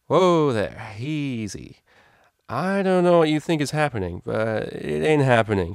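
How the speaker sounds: slow, would-be stern warning through a muddled head; trying to sound serious. A narrator's reading. Mare pushing back a stallion's hoof, forcing a serious tone. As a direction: hold it together and sound firm, a bit slow on the end. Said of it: "trying to sound as serious as possible".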